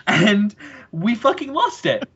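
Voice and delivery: high shrieking laughter then words; real laughter spilling over the line; laughing hard. Real, not acted. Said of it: "we just laughed and we were screaming".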